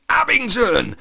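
high, loud accusing cry; exclaiming. A narrator's reading. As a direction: shout the name in shock. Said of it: "exclaimed Latham".

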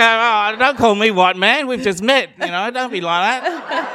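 loud, comic indignation; retold blow-up. Visitor objecting to being called white man, mock indignation. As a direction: protest with mock offence. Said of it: "So I blew up. I go".

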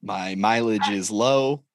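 slow, prim cover-letter read; lightly hammed-up formal letter reading; mock formal letter. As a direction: read it like a proper job application.

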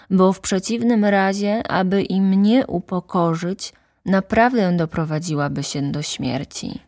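lightly voiced worried child; little prince. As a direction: fret it out like a small boy. Prince imagines his rose.

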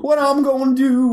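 high, exaggerated mimicked lament; mock wailing. Mimicking co-host's lament from last night, mock wailing. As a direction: moan it high, mocking his panic. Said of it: "last night you were like".

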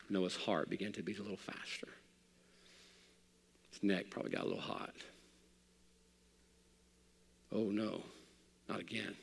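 preacher picturing Noah hearing thunder again; hushed dread. Retold or imitated. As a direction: lean in and let the fear creep in. Imagining Noah's fear at thunder.

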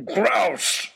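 high, loud wailing cry; plaintive bellow. Acted. Oxshott pleading with Lord Daunt, plaintive bellow. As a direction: bellow it like a child denied. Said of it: "bellowed Oxshott, almost plaintively".

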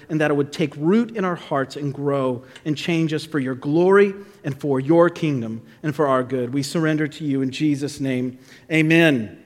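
measured, earnest pastoral prayer. Real, not acted. Pastor praying before reading scripture, earnest prayer. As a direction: lead the room steadily in prayer.

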